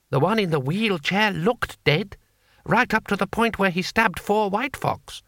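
slow, high voice of a locked-up guard; nervous guard. Acted. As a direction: puzzle it out slowly, pitched high. Guards talking in cell.

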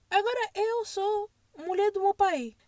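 slow, hammed-up whimper; mock crying. After hanging up on the man, a mock sob. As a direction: pretend to sob it out.

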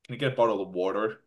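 lightly put-on American accent; imitated American pronunciation of water. Shown as a demonstration. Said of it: "it sounds American".

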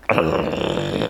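low rattling imitated growl; animal growl. Imitating a growl heard at night, low rumble. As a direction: growl softly from the throat. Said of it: "growling and shit that you could hear".

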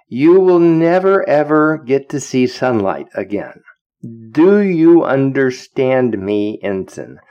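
retold tirade, each ban laid down deliberately; stern dressing-down. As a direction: lay down the law to a subordinate. Admiral dressing down the young ensign.

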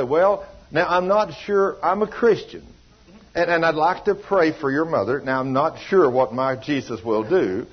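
hesitant, wishy-washy believer praying; mock a doubtful, hedging prayer; mock unsure Christian. Preacher mocks a timid Christian, hesitant hedging voice. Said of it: "You ever heard anybody talk like that".

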